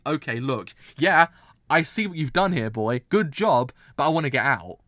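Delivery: loud, brushing-off mock reply to the boy; mock dismissive Valentine. Valentine brushing off the boy, loud mock voice. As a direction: bark it out like a fake pat on the back. Voicing Valentine's empty words.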